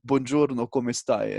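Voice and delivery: "Buongiorno, come stai?" with a native Italian accent. Shown as a demonstration. Showing the host his accent-free Italian greeting. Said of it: "Italian is like".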